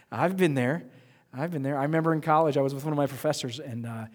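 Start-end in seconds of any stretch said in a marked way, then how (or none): 0.1-0.8 slow, laughing through it; a slower, amused echo of the line; laughing repeat. Shown as a demonstration. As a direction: chuckle as you repeat it.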